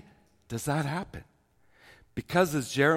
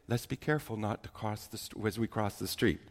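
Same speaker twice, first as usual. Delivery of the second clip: mild caution; 5 semitones lower, 9 dB quieter than usual. Shown as a demonstration. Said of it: "Would anyone say it like that?".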